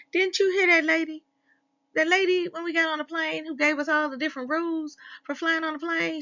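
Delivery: high, scolding little elf; fast, high tattletale elf; bossy elf voice. Acted. Elf bossing another elf.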